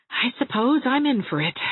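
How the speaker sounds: high-pitched resigned giving in; resigned despair. A narrator's reading. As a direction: give in with a helpless shrug in the voice. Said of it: "said Anne with a shrug of despair".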